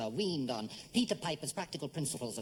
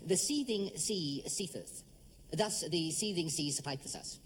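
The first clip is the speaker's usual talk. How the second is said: slow careful diction; slower than usual. Shown as a demonstration. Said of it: "try this one".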